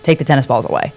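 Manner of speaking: calm, low and unhurried; calm knowing voice. Retold or imitated. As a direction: say it quietly, as something simply known. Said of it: "and it was calm".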